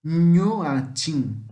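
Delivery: Nhuatim begun with nh as in Portuguese. Shown as a demonstration. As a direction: start Nhuatim with a palatal nh. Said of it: "esse N com tio tem som de N H".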